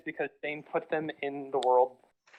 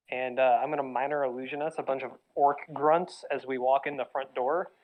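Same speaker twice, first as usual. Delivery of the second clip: muffled speakerphone. Real, not acted. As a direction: voice muffled through a phone speaker. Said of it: "why does it sound like you're talking through a t-, towel".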